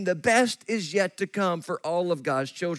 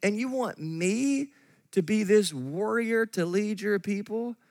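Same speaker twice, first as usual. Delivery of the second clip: Gideon's sarcasm; 3 semitones higher than usual. Acted. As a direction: play a mildly sarcastic, doubting objector. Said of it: "you'd almost hear the sarcasm in Gideon's voice".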